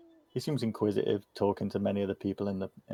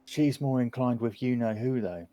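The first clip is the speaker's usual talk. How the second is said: lightly voiced chatty child, higher pitch; inquisitive kid; 4 semitones higher than usual. Kid tells strangers about the big house, lightly voiced child. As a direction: lightly play a gossipy youngster.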